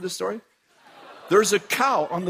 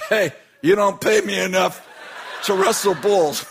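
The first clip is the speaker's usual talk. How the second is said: laughing mock protest; 3 semitones higher than usual. Mechanics refusing, laughing.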